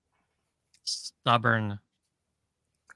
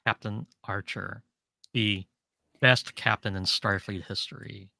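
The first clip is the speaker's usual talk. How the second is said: trying to keep a straight face; measured, halting praise, barely keeping composure; failed straight face; 4 semitones lower, 4 dB quieter than usual. Real, not acted. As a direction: deliver grand praise as deadpan as you can manage. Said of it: "tried to say that with a straight face".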